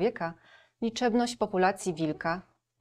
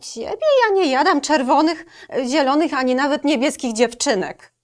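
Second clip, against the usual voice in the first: higher, louder wolf voice; 7 semitones higher, 8 dB louder than usual. Acted. Wolf explaining he eats no girls, voiced higher. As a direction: answer like a squeamish wolf.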